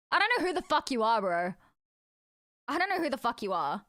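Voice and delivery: loud, exasperated; loud outburst. Real, not acted. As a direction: blurt it out loudly. Shouting at unknown character.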